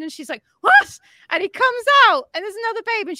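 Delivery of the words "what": high, loud mock shock; imitating a stunned shriek; shocked yelp. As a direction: yelp it in hammed-up disbelief. Woman shocked at another birth.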